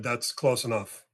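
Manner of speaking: slow, even warning to stop; calm warning. Retold or imitated. Telling the approaching young man to stop, slow calm warning. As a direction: set a limit calmly, no push yet. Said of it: "'Cause now I'm starting".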